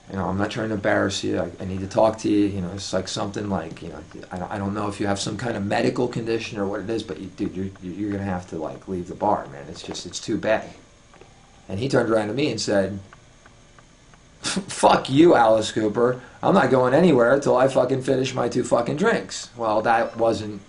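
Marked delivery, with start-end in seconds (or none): 0.1-10.7 low, soft, halting retold plea; tactful, awkward request. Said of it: "I'll handle it with tact". 14.4-19.5 retold belligerent refusal; mock a stubborn customer mouthing off; lippy defiance. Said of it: "this guy gets lippy with me".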